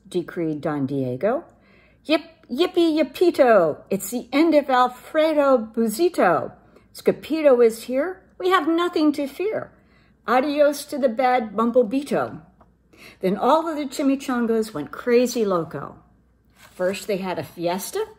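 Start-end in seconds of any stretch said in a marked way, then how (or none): 2.0-12.4 loud high cheering chant; excited cheer. Acted. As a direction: cheer like a happy pack. Dogs cheer the hero.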